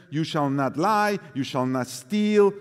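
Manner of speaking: normal talking voice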